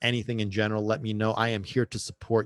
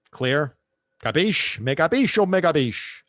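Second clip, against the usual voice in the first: mock Italian demand; 6 semitones higher, 7 dB louder, slower than usual. Demanding listeners understand, mock Italian.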